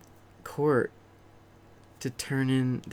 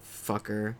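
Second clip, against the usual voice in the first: muttered sarcastic reply; 6 dB quieter than usual. Retold or imitated. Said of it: "I was like".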